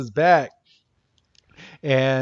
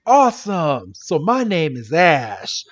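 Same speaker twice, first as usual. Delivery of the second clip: delighted introduction; 2 semitones higher, 3 dB louder than usual. Retold or imitated. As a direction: burst out, then introduce yourself eagerly. Ash delighted, introduces himself.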